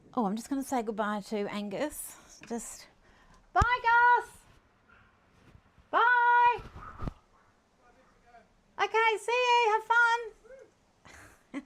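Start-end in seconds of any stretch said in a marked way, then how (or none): 2.5-11.6 very high, very slow calling yell, rising. Saying goodbye to Angus outside the window: yelling goodbye out the window. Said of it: "Sorry for yelling out".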